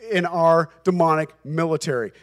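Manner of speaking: loud, insistent mock plea; imitated begging. Demons pleading with Jesus to keep their area, imitated begging. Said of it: "The demons are begging with Jesus".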